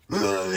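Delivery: high wordless mock rant noise; imitated freak-out noise. Storyteller imitating the man coming outside, freaking-out noise. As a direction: sputter like someone losing it. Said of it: "he's, like, freaking out".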